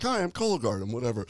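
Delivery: a light mascot character voice; Cologuard mascot voice. Retold or imitated. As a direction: voice the box mascot, starting high. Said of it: "He's like".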